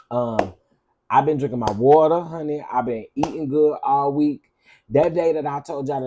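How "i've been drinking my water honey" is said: proud boast. Real, not acted.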